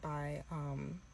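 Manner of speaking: fake-tearful influencer apology. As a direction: play a teary influencer pleading not to be canceled. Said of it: "This is my impression of a white influencer that's making an apology video".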